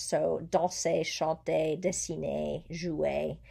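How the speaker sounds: DANSER, CHANTER, DESSINER, JOUER ending in an "ay" sound, no R; silent final R. Shown as a demonstration. Teacher listing French verbs, silent final R. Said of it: "you would not hear the R".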